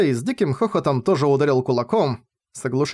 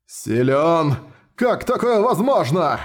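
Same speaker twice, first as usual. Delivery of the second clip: stunned disbelief; 3 semitones higher, slower than usual. Acted. Minotaur losing, disbelieving.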